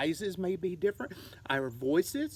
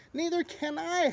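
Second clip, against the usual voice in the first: much higher howl; 10 semitones higher than usual. Acted. Bird panicking while flying blind, howling. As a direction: wail it in the dark. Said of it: "howled Flitter".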